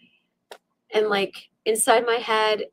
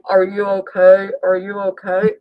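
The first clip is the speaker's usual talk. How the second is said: loud, stretched-out check on someone; imitated stranger calling loudly; urgent calling out; 8 dB louder than usual. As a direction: call through a car window to rouse someone. Stranger knocking on car window.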